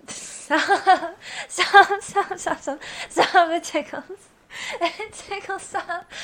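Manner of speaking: high, loud, squealing through laughter; giggling, begging him to stop tickling; being tickled. Real, not acted. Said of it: "You're tickling me".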